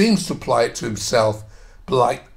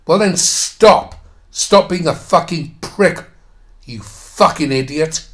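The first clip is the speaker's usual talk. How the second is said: raised, emphatic outburst at the writer, easing at the end; angry retort; 3 semitones higher, 3 dB louder than usual. Real, not acted. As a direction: tell him off, starting slow and loud.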